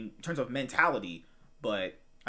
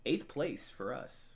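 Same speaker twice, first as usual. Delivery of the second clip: announcer voice; 6 dB quieter, slower than usual. Pretend. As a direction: boom it out like a fight announcer. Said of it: "Using your announcer voice now?".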